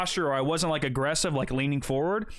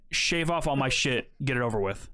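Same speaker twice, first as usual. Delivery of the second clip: restrained angry demand; 4 semitones lower than usual. Retold or imitated. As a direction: lay it down with contained irritation. Fed-up demand to barber, retold.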